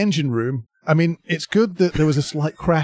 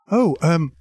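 polite robot apology. Acted. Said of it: "Perry going".

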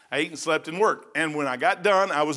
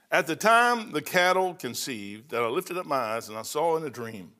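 scripture reading; 2 semitones lower than usual. Acted. Preacher reading Genesis aloud to the congregation, measured. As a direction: read the verse like from the pulpit Bible.

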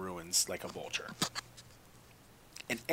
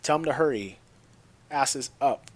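loud urgent call over the radio; urgent shout; 4 semitones higher, 6 dB louder than usual. Acted. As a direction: shout it out in a hurry. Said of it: "Rocket over the comm".

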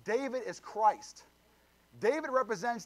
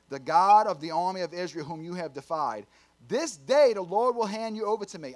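bold declaration; 7 dB louder than usual. Acted. David's defiance read loud.

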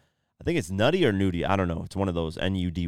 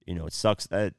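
hoarse, worn-out voice; losing voice. Real, not acted. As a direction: voice giving out, rough and thin. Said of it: "I'm losing my voice".

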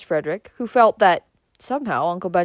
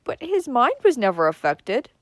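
higher, mildly tearful defence; 6 semitones higher than usual. A narrator's reading. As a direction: defend him with a touch of tears. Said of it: "admitted Missus Frederick tearfully".

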